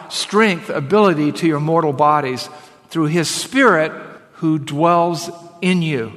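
deliberate, emphatic Bible reading; scripture reading. Acted. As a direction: proclaim the verse phrase by phrase. Reads scripture aloud to congregation.

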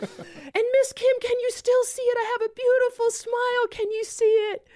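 put-on very high, jubilant child's voice; excited little boy. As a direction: call out like a thrilled child. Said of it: "He's riding away from me".

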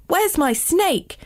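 high, slow storybook call; stretched, high-pitched mock shout; mild acted shout. A narrator's reading. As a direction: call out in alarm, volume held back. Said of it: "shouted Jasper".

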